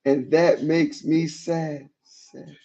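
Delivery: mocking, overly dramatic reading of her texts; theatrical reading. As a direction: read it like a melodrama, milking each sad. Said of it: "This is theatrical".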